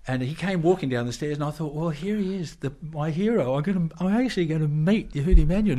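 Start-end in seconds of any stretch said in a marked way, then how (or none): 1.8-5.8 high, building excitement; thrilled. Retold or imitated. Fan about to meet his hero Menuhin, high and thrilled. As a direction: gush about meeting your hero.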